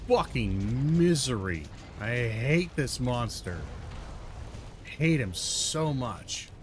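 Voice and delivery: slow, exasperated cursing; real frustration. Real, not acted. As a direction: drag out the misery and hatred. Cursing the monster after failing.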